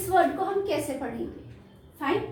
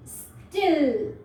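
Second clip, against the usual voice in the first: स्टिल drawn out slowly, short i held; slow demo word; much slower than usual. Shown as a demonstration. Teacher showing kids the word, slowly drawn out. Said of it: "अगर हम इस word को ऐसे पढ़ें".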